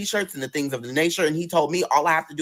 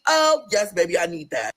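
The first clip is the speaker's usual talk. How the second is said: delighted; 3 semitones higher, slower than usual. Real, not acted. Storyteller reacting to her trainer, high delight. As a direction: savor the good news.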